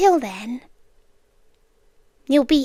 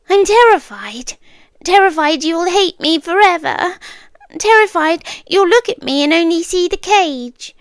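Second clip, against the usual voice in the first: louder, higher, urgent confession of fear; terrified outburst; 4 semitones higher, 5 dB louder than usual. Acted. Captor confessing to captive, loud and frightened. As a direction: blurt out the fear, pushing hard.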